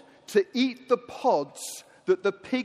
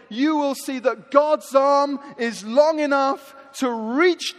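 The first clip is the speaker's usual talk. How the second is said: impassioned sermon building to a louder climax; preaching; 3 dB louder than usual. Real, not acted. Preacher promises struggling congregation rescue, building impassioned preaching. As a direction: drive the repeated promises up to a rousing peak.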